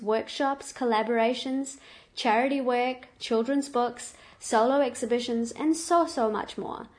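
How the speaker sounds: loud, upbeat guest introduction; excited announcer. Acted. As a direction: present her like a headline act. Host introduces guest, louder.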